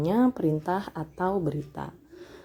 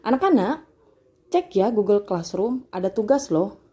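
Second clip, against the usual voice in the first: lightly acted teacher's announcement, raised pitch; higher, louder opening, then a friendly reminder; teacher addressing pupils; 3 semitones higher, 3 dB louder than usual. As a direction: call the class's attention to a task. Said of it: "Tapi kalau kalimat langsungnya".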